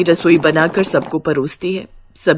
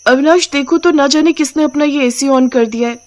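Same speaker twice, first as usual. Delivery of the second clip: put-on high-pitched, complaining young wife; Anjali; 6 semitones higher than usual. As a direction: complain to your husband in a higher voice. Freezing wife complains to husband. (शिकायत करती ऊंची आवाज़)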